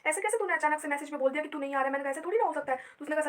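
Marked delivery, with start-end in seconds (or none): 0.1-1.9 mildly indignant questioning; retold anger. Sister demanding why brother suddenly cancelled by message, mildly indignant. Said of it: "अब मुझे इतना गुस्सा आया". 2.1-2.8 higher, mildly cross objection; retold anger. Sister refusing to believe brother's message, mildly indignant. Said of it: "अब मुझे इतना गुस्सा आया".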